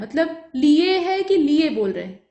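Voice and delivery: लिए said slowly with a clear final ए; slow test of how लिए sounds; pronunciation check. Shown as a demonstration. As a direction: say लिए slowly and listen to the ending. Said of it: "एक बार बोल कर देख लीजिए".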